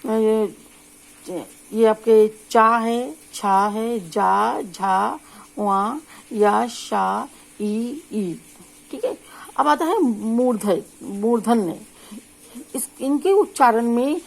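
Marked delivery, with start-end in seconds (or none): 1.7-8.4 चा छा जा झा said slowly, tongue to the palate; teacher's palatal drill; palatal sounds demo. Shown as a demonstration. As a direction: model the palatal row, one syllable at a time. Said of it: "इसके जो शब्द हैं".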